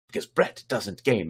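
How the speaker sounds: Brett doesn't game run together in one quick breath; said quickly. Shown as a demonstration. Host shows viewers how the handle should sound, said quickly. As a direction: rattle off the handle quickly and concisely. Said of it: "said very quickly and concisely".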